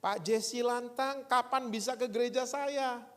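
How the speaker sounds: the pastor calls to invite him, slow and high; pastor on the phone. Retold or imitated.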